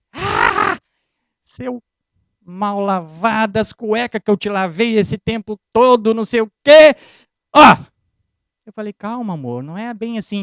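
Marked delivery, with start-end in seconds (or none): 0.1-7.8 hammed-up angry wife, ending loud; half-acted jealous outburst; mock furious wife. Wife furious at affair news. 8.9-10.4 softer, calming husband; mock reassuring hush; soothing. Calming the angry wife.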